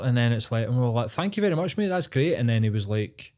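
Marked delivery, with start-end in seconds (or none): 1.1-2.3 much higher, sing-song overly polite thanks; mock gratitude. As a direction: ham up being a grateful tourist. Retold overly grateful tourists.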